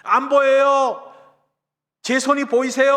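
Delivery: high, loud trapped survivor's cry; acted urgent calling out; shouted reply. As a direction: yell back to a distant rescuer. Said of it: "소리를 질렀어요".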